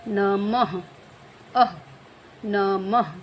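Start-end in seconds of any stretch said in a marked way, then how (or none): 0.1-0.8 नमः ending in a breathed out ah; teacher stressing the aspirated end of नमः; breathy final ah. Shown as a demonstration. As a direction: let a puff of breath follow the a of नमः. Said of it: "इसका उच्चारण क्या हो रहा है".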